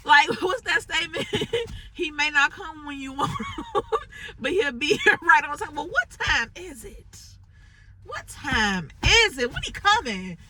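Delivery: high, giggling exasperation; amused then impatient laughing rant; laughing through it. Real, not acted. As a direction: laugh at your own frustration while asking. Laughing while quoting the saying.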